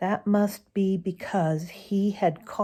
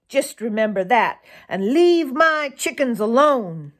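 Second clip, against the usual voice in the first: raised, higher voice calling after; shouting; 4 semitones higher, 3 dB louder than usual. Acted. Boy calls a warning after the fox, loud and raised. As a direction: call the warning out across the field. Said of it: "shouted Farmer Brown's boy".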